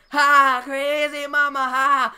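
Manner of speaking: high, loud mock drunken whoop; drunk lady. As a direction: imitate a crazed woman calling out from down the hall. Imitates drunk lady heard from afar.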